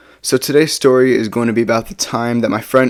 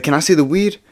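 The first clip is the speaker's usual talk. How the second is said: lightly voiced drunk guy, higher pitch; drunk, high partygoer; 5 semitones higher than usual. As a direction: imitate the stoned guy asking, pitched up. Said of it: "He's, like, super drunk and high".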